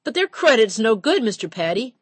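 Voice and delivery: put-on young clerk nervously protesting to the captain; stammering clerk. A narrator's reading. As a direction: push back nervously. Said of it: "the clerk stammered".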